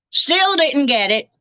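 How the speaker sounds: ordinary delivery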